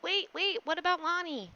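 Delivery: high, loud startled interruption; alarmed protest. Real, not acted. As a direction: stop them, suddenly alarmed. Player suddenly protests.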